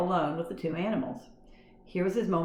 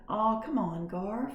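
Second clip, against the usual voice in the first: coaxing; 4 semitones higher, slower than usual. A narrator's reading. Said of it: "coaxed Ralph".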